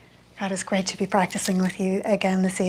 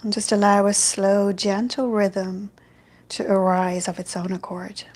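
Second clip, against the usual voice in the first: calm, even meditation guidance with long pauses; guided meditation. Real, not acted. Yoga teacher guiding an online evening class into loving kindness, meditative. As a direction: ease them into stillness, phrase by unhurried phrase.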